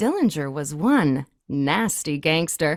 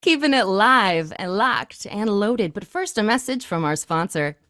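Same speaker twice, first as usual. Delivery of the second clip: upbeat radio host hyping the station; smooth DJ voice selling the show; radio DJ patter; 3 semitones higher than usual. Acted. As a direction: DJ Miss Abby Lee greeting her listeners. DJ hosting the station.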